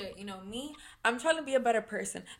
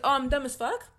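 higher-pitched rising question of mock bewilderment; confused, confrontational; 5 semitones higher than usual. Repeating how she challenged the boy in the car, confused and confrontational. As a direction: throw the insult back as a baffled question. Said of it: "I said it confused".

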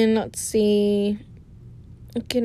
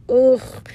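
imitated frustrated groan; 2 semitones higher, 4 dB louder than usual. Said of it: "I get the jitters".

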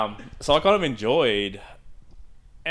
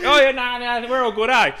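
casual bloke; 12 semitones higher, 5 dB louder than usual. Retold or imitated. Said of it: "He's like".

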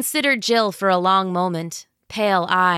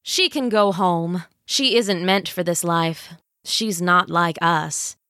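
scheming villain queen. Acted. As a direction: savor every word like a tyrant. Villain dismisses mother.

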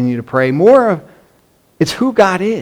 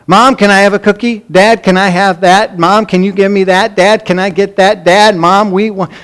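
rapid-fire run of requests, slightly raised pitch; pestering little kids; 3 semitones higher than usual. Retold or imitated. Kids asking mom and dad for things, mildly voiced pestering. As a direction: lightly imitate kids nagging their parents. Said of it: "especially when they were little".

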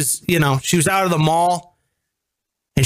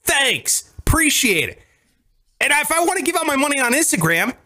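lightly raised put-on voice; mock nice guy; 9 semitones higher than usual. Host mocking his giveaway persona, raised voice. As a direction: play the smug nice guy.

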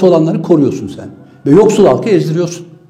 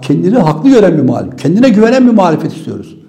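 ordinary delivery

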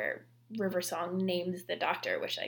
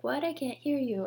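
higher-pitched mock not hearing; lightly acted joking call-back to children; playful teasing; 6 semitones higher than usual. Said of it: "he is joking around with them".

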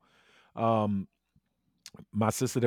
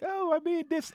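mock proud. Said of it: "people are like".

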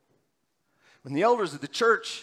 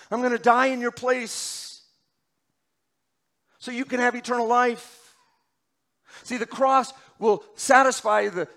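pleading, raised voice, each question climbing; anguished Jesus; 6 semitones higher, 5 dB louder than usual. Acted. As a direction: voice Jesus begging them to believe. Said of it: "you can hear the anguish in his voice".

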